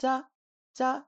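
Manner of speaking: high-tone unaspirated "Ja"; no aspiration. Shown as a demonstration. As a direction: say "Ja" with no puff of air. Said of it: "No flutter".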